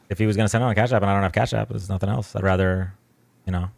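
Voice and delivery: flat monotone delivery. Real, not acted. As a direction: speak in a tired monotone. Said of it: "sorry about the monotone voice".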